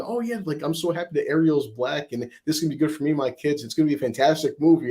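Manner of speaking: imitating a Jamaican accent, starting high and quick; mock Jamaican accent for the passenger. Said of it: "she had this Jamaican accent".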